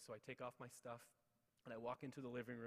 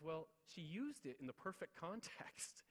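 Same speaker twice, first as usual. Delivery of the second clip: amused confiding teacher; 6 semitones higher, slower than usual. Retold or imitated. Teacher amused by child's swearing.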